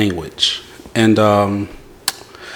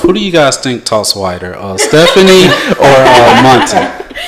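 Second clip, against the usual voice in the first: laughing question. Real, not acted. Host laughing asking question.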